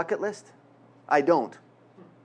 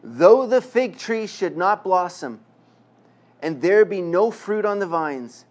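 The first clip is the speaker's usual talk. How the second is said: slow, measured reading of the passage; solemn scripture reading. Acted. Pastor reading the verse to the congregation, slow and solemn. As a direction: lift the verse slowly and reverently.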